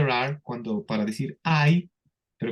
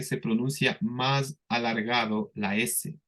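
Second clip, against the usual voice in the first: 1 drawn out; 3 dB quieter than usual. Shown as a demonstration. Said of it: "como les dije".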